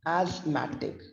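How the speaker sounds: ASTHMATIC stressed on the second syllable, "az-MAT-ik"; shifted word stress. Shown as a demonstration. Teacher demonstrates different word stress, ASTHMATIC as "az-MAT-ik". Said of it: "but the word stress is different".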